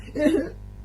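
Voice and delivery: high-pitched imitated whimper; mock pouting whimper. Man mimics partner after her outburst, mock whimper. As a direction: put on a high, pouty little cry. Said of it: "Like this, right?".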